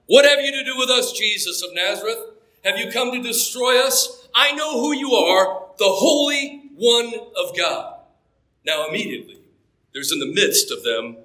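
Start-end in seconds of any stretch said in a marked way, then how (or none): 0.1-7.9 demon crying out. Acted. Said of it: "And he cried out".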